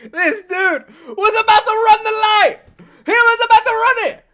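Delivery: high, loud amazed outburst; high loud outburst of amazement; exclaiming. Real, not acted. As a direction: exclaim in disbelief. Amazed reaction to the story.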